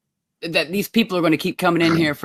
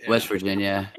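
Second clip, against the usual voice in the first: put-on Appalachian accent; 5 semitones lower than usual.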